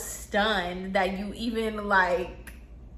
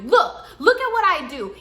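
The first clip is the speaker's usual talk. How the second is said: higher, hammed-up wailing rant; imitating ranting client; 8 semitones higher, 6 dB louder than usual. Client ranting tearfully to the stylists, high and hammed-up. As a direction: whine and wail like a wounded diva.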